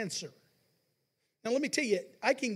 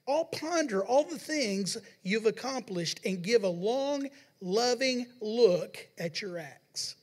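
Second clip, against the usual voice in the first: scripture reading; slower than usual. Acted. Reads psalm aloud in sermon.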